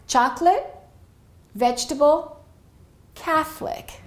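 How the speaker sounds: high, listed drill of 'Chocolate', 'vegetable', 'Catholic' without the middle vowel; reduced-syllable drill. Shown as a demonstration. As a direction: say 'Chocolate', 'vegetable', 'Catholic' as chok-lut, vej-tuh-bul, kath-lik. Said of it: "let's repeat these three words again".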